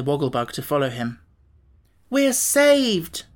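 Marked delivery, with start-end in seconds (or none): 2.1-3.2 high, bright-voiced cry of relief; boy shouting with joy at being saved; delighted shout. Tip shouts to friends, high delighted cry. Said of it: "shouted the boy delightedly".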